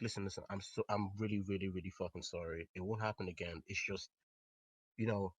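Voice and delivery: low, soft, earnest apology; imitating her sincere pleading, kept quiet; genuine apology. Girl apologizing as he walks away, genuine and subdued. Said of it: "she apologized, and it seemed genuine".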